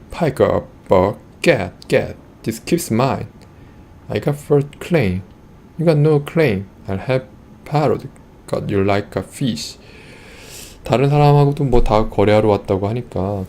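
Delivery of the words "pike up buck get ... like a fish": angry merchant. Acted. Furious merchant shoos away the rival trader, mildly angry. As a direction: snap at him, claiming first rights. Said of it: "His face turns bright red".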